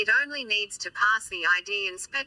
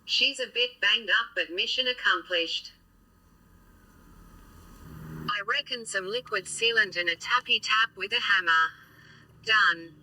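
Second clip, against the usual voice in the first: robot voice. Real, not acted. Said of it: "you're gonna have to put up with my robot voice for a bit".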